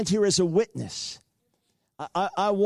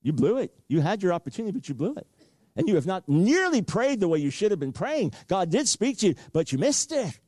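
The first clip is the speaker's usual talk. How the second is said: low accusing inner voice; 4 semitones lower than usual. Retold or imitated. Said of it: "I heard it clearly".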